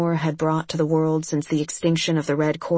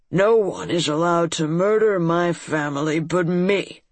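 croaking frog lord. Acted. Fomor boasts possessively.

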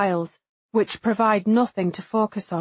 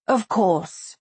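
smooth. A narrator's reading. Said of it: "she says smoothly".

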